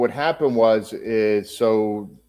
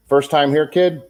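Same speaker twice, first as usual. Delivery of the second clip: Macho Man voice; 4 semitones higher than usual. Retold or imitated. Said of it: "I hear this raspy voice coming up".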